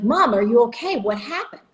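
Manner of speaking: mild startled worry; alarmed. Retold or imitated. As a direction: ask mom if she's okay, taken aback. Finding mom amid bathroom mess.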